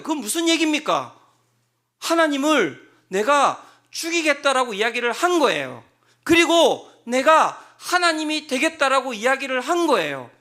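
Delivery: loud, rising sermon climax; preaching at full force. Acted. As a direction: drive the point home with force.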